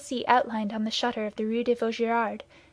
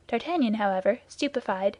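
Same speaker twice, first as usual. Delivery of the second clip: usual speaking voice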